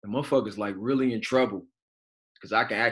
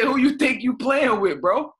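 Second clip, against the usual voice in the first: retold shout; 14 semitones higher, 7 dB louder than usual. Confronting doctor with the needle.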